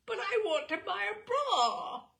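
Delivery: a retold teenage whine to her mother; insistent plea. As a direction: push the demand harder this time.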